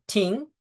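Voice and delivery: light, ringing "ting"; imitated bat tink. Umpire teaching the sounds of a tipped pitch, imitated tink. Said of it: "three distinct different sounds".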